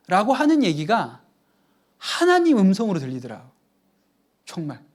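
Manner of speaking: normal talking voice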